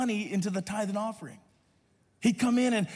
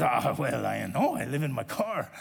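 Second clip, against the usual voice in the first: Hugo's voice; 6 semitones lower than usual. Retold or imitated. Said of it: "his voice is like this".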